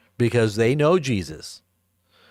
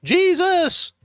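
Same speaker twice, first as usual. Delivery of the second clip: high, shrieking demon voice; piercing demonic wail; demon cry; 3 dB louder than usual. Acted. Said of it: "All the demons would always say".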